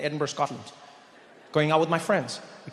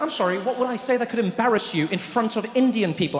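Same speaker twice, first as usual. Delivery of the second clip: lightly voiced higher, offended questioning; a touch of indignant disbelief, pitched up; affronted friend; 6 semitones higher than usual. Friend at restaurant objecting to the warning, indignant higher voice.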